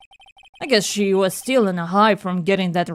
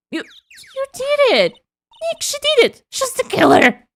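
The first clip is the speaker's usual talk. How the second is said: excited accusation; 5 dB louder than usual. Acted. Accusing the killer in game.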